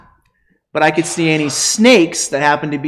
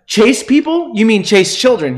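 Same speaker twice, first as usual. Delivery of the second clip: shocked disbelief; 6 semitones higher than usual. Retold or imitated. Shocked retold question to student.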